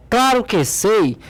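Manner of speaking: slow, emphatic "claro que sei" with a firm push on "claro"; stronger intonation. Acted. Teacher reading an exclamation-marked sentence to the class, stronger intonation. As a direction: stretch out "claro que sei", starting high on "claro" and falling. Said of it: "dar uma entonação mais forte".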